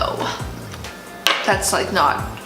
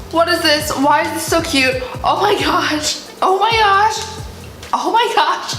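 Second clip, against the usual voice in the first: excited; 8 semitones higher than usual. Real, not acted. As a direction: gush over something adorable. Thrilled at an unboxing item.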